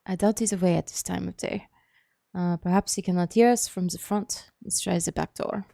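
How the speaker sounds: put-on measured character voice with a light German accent; lightly voiced German-accented figure; accented game character. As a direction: read the doctor's line in a put-on German accent.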